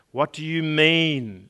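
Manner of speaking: slow, lightly voiced stern caterpillar; a hint of a stern caterpillar demanding an answer; slow mock-stern question. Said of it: "said the caterpillar sternly".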